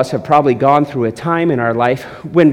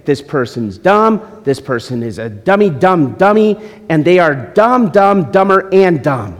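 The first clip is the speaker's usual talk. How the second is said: venting about someone you dislike, mock-childish rant. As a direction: rattle off insults like a petty venter. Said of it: "you just wanna say".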